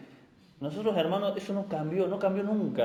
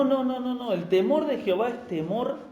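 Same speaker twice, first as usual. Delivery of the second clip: normal talking voice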